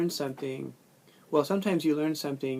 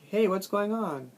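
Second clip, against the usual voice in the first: bright higher casual "Hey, what's going on?"; casual greeting; 6 semitones higher than usual. Shown as a demonstration. Teacher modelling a chunk as a lively greeting. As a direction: toss it off like greeting a friend. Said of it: "we think of them like".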